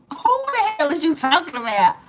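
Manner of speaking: husband catching his wife ogling another man, shocked. Retold or imitated. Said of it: "He was shocked and appalled".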